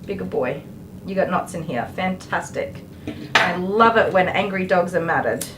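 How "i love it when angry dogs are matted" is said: dry mock delight; sarcastic. Real, not acted. Groomer sarcastically praising the matted angry dog. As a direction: say it like you love it but you don't. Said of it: "with all the sarcasm in the world".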